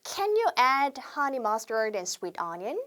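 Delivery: slow, careful order phrase; slow classroom demo; slow model sentence. Shown as a demonstration. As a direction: read it word by word for repeating. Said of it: "한번 따라해 볼게요".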